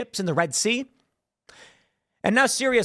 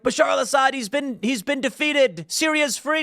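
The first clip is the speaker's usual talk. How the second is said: imitating cheering; 8 semitones higher than usual. Refugees cheering in the street, imitated high and jubilant. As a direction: sell the joy of a liberation. Syrians cheering in viral video.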